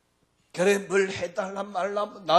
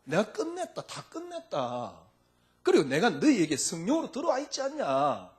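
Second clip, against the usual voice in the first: Jesus speaking; 8 semitones higher than usual. Acted. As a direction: proclaim it as Jesus, building with force. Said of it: "주님 아마 그럴 겁니다".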